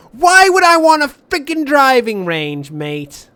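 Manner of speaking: loud, high shout of disbelief; indignant outburst. Real, not acted. Gamer scoffs at a driving range reward, indignant outburst. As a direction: shout it, starting high and falling away.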